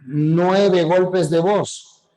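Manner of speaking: each syllable tapped out slowly; "Nueve golpes de voz" split into nine slow syllable beats. Shown as a demonstration. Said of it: "nueve sílabas".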